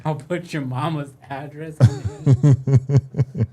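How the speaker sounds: slow, laughing echo of a threat; laughing repetition. Retold or imitated. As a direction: repeat it while cracking up.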